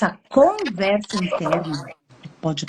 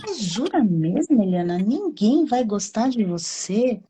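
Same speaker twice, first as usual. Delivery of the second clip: gentle challenge; 2 semitones higher than usual. Shown as a demonstration. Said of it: "Ó, está falando com você".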